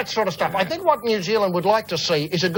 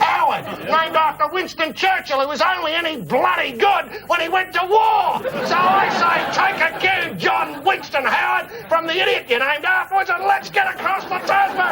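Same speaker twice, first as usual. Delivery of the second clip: rally the nation to war, hammed up; ranting like a politician calling for war; mock rallying cry; 12 semitones higher than usual.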